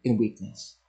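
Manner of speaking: quiet reverent quote; gentle quoted scripture. Acted. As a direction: let it settle softly.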